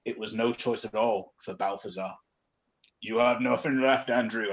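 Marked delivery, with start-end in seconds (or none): 3.0-4.5 ghost voice. Acted. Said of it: "I'm doing a ghost voice".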